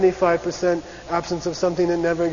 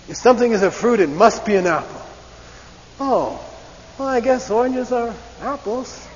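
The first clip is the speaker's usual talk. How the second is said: mock absurd reasoning; 6 semitones higher than usual. Shown as a demonstration.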